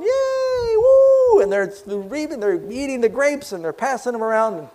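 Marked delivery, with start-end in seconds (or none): 0.0-1.4 very high, loud whoop; crowd cheer. Acted. The people cheer the fruit, loud whoops. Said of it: "the people are going".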